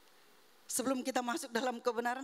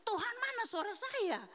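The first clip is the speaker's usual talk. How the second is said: retold cry to God; 10 semitones higher than usual. Woman crying to God for her lost voice, retold pleading yell. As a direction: plead upward in a held-back cry. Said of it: "sambil saya teriak".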